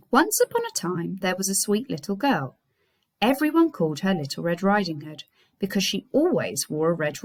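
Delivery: lively read-aloud for the class; story reading. Acted. Teacher reading Little Red Riding Hood aloud to her class. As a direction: tell the tale to year five, expressive.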